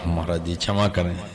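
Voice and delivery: soft, low, submissive plea; nervous apology. Acted. Cowherd apologising to the holy man, meek and nervous. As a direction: beg pardon meekly, dropping the voice. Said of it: "सो घबरा गया".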